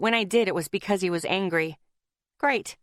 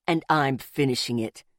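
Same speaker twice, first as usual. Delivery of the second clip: snapped; 6 semitones lower than usual. A narrator's reading. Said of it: "Zeke snapped".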